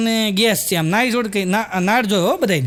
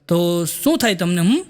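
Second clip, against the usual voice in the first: loving tone; 4 semitones lower, slower than usual. Retold or imitated. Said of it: "તમે કેટલું સરસ પ્રેમથી".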